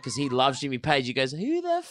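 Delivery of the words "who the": high, slow Australian drawl; Seamus impression. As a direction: stretch it out, much higher. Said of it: "That's how he sounds too".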